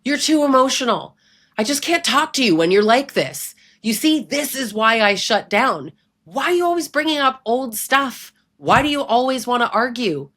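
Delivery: mock-whiny impression of a controlling partner; mocking abuser voice. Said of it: "You've heard all this".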